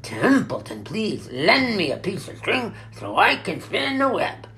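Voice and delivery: loud, high, grumbling mockery; disgusted. A narrator's reading. Rat resents running errands, disgusted. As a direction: complain loudly, parroting every order. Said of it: "he said in disgust".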